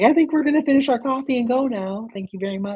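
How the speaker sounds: high, hurried mock politeness; fake-cheery excuse to leave fast; nervous polite exit. Guest excusing herself from the haunted house, high mock-polite. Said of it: "I was like".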